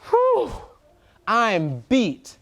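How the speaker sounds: high puffed-out sigh then tired; a worn-out truck blowing out air; tired Crane. Acted. Truck voice, tired after building.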